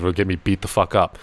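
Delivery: ordinary talk, nothing marked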